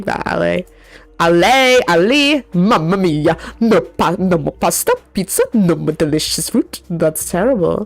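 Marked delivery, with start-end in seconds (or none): 1.2-6.8 hammed-up Italian accent, mamma mia; jolly italian pizza chef. Mock Italian lament about pasta.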